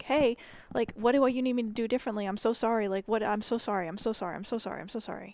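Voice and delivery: fast, eager apology fading away; imitating herself groveling to her partner; groveling puppy. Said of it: "like, a puppy".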